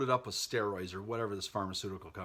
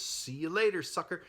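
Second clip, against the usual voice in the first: higher-pitched taunting goodbye; mock gleeful send-off; 7 semitones higher than usual. Ticked-off dad to baby alligator he flushes, mock gleeful send-off. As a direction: toss off a cheeky farewell.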